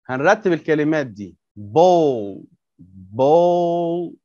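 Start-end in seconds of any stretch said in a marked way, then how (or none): 1.6-4.2 ball said slowly with a long o; modelled English word. Shown as a demonstration. Teacher models "ball" for the pupils, clear and drawn out. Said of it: "ترى ب ده صوت ايه؟".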